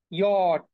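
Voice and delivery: "ইয়ট" as a drawn-out "yot"; teacher's model "ইয়ট", falling in pitch; German letter J. Shown as a demonstration. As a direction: say "ইয়ট" with a y glide and final t. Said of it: "জে এর উচ্চারণটা হচ্ছে".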